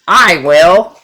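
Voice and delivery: loud quacked "I will"; eager duck. A narrator's reading. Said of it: "quacked the duck".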